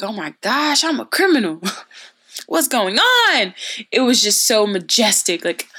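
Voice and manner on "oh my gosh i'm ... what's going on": high, hammed-up alarm breaking into a laugh; mock panic. Student panicking after the powder throw, mock alarm. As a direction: play up a comic freak-out, pitch climbing. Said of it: "I was scared".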